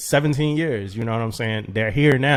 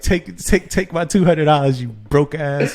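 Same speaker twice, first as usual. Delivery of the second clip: mock angry taunt; 3 semitones higher, 5 dB louder than usual. Retold angry text, laughing.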